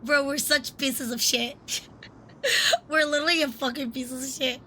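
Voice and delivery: helpless laughter breaking into tears; laugh-crying. Real, not acted. Laughing to tears at the game characters. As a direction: laugh until you cry, words squeezed out. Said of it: "I'm crying".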